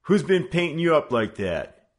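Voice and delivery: high, loud hoodlum demand. Acted. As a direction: force an answer out of him. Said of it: "he demanded".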